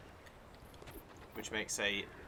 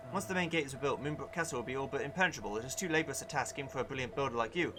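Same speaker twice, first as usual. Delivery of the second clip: jolly king voice; 2 semitones higher, 3 dB louder than usual. Acted. Reads king's dialogue aloud.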